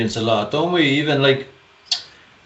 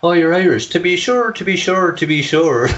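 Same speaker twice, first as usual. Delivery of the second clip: high, sing-song mimicry of teasing strangers; chirpy, high-pitched mocking imitation; mock stage Irish; 7 semitones higher than usual. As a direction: imitate someone parroting an Irish catchphrase. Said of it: "another thing people used to say to me in Australia".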